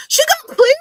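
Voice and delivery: very high, loud incredulous squeal; shocked outburst. Real, not acted. Streamer reacting to news she got cleared, shocked shriek. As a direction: shoot up high and loud in disbelief.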